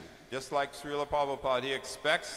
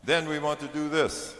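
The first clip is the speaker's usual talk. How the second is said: raising the bar; 5 dB louder than usual. Retold or imitated. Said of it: "Then he would say".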